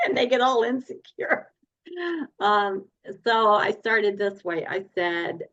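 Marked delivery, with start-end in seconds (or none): 0.0-1.5 laughing. Real, not acted. Laughing at husband's reaction.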